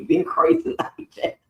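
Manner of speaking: high voice bubbling with laughter; cracking up, pitch way up; laughing. Real, not acted. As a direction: squeeze the words out through laughs. Laughing at the old story.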